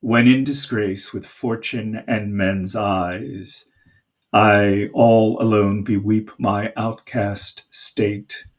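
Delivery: slow, measured verse reading; measured Shakespeare recital; poem recitation. Shown as a demonstration. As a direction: speak the sonnet with feeling. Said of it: "let me just say the first four lines".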